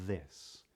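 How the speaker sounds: "this" with a light, long voiced TH, tongue just between the teeth. Shown as a demonstration. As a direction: say "this" letting the TH flow long. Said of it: "So if I say, for example".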